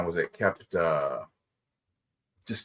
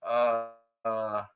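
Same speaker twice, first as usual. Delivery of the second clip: timid mumble; 3 semitones lower, 8 dB quieter than usual. Pretend. Mock timid kid.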